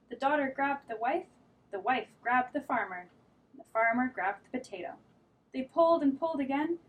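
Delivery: lively read-aloud storytelling; reading to children. A narrator's reading. Teacher reading a picture book to children. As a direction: read it like story time for little kids.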